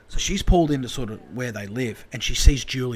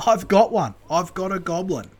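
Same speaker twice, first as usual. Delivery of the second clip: high imitation of a thrilled catcher; playful triumphant high voice; excited son; 6 semitones higher than usual. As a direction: crow it high, easing off at the end. Joins in imitating excited Joe.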